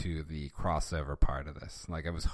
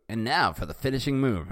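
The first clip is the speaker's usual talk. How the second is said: higher, hammed-up battle cry; fast, raised theatrical delivery; dramatic announcement; 5 semitones higher, 4 dB louder, faster than usual. A narrator's reading. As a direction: announce the final blow with quick, mock-epic relish. Redoes Bart's line more theatrically.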